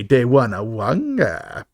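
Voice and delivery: lightly voiced, slow alien line; a hint of a drawn-out alien creature; Bib Fortuna. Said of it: "as Bib Fortuna would say".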